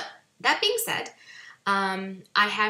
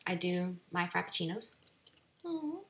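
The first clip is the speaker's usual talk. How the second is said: talking between sips of a drink; sipping through a straw; 4 dB quieter than usual. Real, not acted. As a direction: sip the frappuccino, then a hummed mm-hmm. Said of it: "Sorry I'm drinking and talk".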